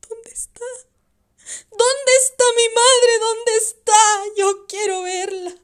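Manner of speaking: loud, high, sobbing pleas; young son sobbing to see his dead mother; crying child. Acted. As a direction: cry out to see your mother.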